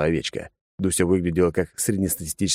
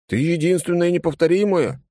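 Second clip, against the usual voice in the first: eager reassurance; 12 semitones higher than usual. A narrator's reading. Husband reassures wife.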